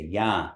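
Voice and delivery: ya with a nasal A and no final N; nasalized A in ya. Shown as a demonstration. Teacher models the word for repeating, nasalized ya. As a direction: send the A of ya through the nose. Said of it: "mark that the A is nasalized".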